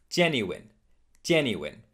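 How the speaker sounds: GENUINE as "JEN-yoo-win"; correct genuine. Shown as a demonstration. Teacher modelling genuine for learners, ending in win. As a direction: end "genuine" with a clear "win". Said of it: "put all of them back together".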